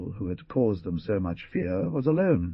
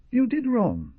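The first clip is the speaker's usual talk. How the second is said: severe; 4 dB louder than usual. A narrator's reading. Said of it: "said the jaguar severely".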